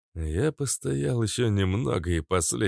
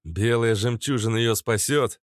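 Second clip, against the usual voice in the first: mildly urgent, higher question; raised, hurried query; quick question; 4 semitones higher, 4 dB louder than usual. Acted. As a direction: ask it quickly. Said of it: "быстро спросил я".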